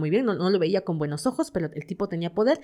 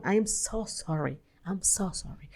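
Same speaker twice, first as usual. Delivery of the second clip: mock sorry apology; 7 dB quieter, slower than usual.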